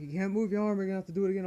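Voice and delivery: a lightly voiced stern nurse. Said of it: "the nurse is like".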